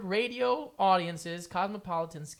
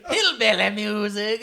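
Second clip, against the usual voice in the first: laughing; 6 semitones higher, 12 dB louder than usual. Real, not acted. Laughing mock of the term.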